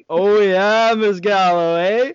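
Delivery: loud, high mocking taunt; student pokes head back in to taunt the teacher, high loud mock; cheeky student taunt. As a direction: tease the teacher through the door. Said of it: "he's like".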